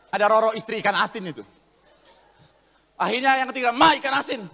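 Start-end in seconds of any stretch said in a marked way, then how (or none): 3.8-4.4 louder mock impatient call. Husband calls wife a third time for fish, calling out. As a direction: call out to someone in another room.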